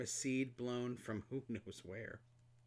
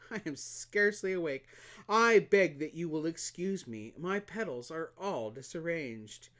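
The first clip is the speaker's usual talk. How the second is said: a hint of a drowsy, vain flower; lightly voiced flower just waking up; sleepy coquettish flower; 4 semitones higher, 6 dB louder than usual. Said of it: "She yawned and said".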